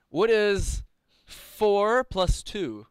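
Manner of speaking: high, slow quizmaster voice; hammy stage actor. Acted. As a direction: ham up the quiz question slowly. Quizmaster voice again.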